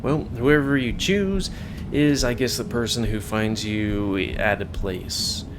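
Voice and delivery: usual speaking voice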